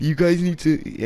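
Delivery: high, drawn-out imitation of a crying teacher; mock tearful rambling. Crying teacher keeps on scolding the class, mock tearful. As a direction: plead high and slow, mock weepy. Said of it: "kept crying and rambling".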